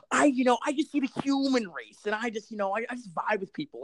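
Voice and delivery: high-pitched, airy stoner impression; mock a weed smoker going on about vibes; hammed-up blissed-out stoner. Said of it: "I sound like one of those fucking people who smoke weed".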